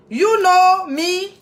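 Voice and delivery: slow, stretched teasing "You know me?"; silly drawn-out. Pretend. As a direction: drag it out playfully. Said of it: "j'arrête de faire ma fofolle".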